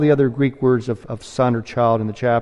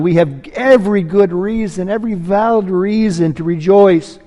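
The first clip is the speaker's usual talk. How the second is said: higher and louder, bursting with good news; preacher voicing an overjoyed father, higher and louder; joyful father; 5 semitones higher, 4 dB louder than usual. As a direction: let the father's joy overflow. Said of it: "The father is saying to the son".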